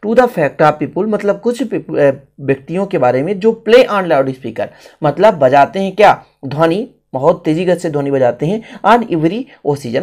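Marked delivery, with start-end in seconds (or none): none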